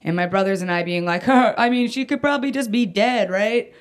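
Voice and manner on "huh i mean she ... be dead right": put-on excited kid voice. Kids joking mom might be dead.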